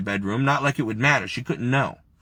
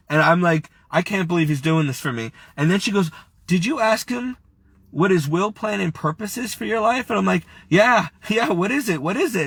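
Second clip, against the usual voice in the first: choked-up, higher-pitched telling; fighting back tears; 5 semitones higher than usual. Real, not acted. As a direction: keep talking while trying not to cry. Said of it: "I'm trying not to cry now".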